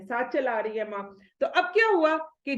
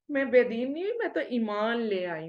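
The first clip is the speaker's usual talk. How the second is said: calm and easy. Retold or imitated. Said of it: "انہوں نے اتنے مزے سے کہا".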